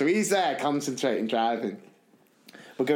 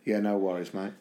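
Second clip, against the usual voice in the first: Cockney John; 7 semitones lower, 4 dB quieter than usual. Retold or imitated. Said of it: "He went".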